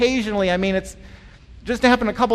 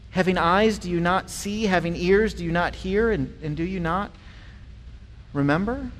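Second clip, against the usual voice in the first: softer, lower, tender rebuke; gentle pleading; 3 semitones lower, 5 dB quieter than usual. Retold or imitated. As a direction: plead quietly with your disciples. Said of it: "This is what Jesus is saying".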